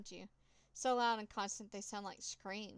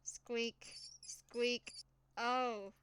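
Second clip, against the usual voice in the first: squeaks rising and louder; dying mouse squeaks; 2 semitones higher, 3 dB louder, much slower than usual. Acted. The cat tears the mouse apart, pained squeaks.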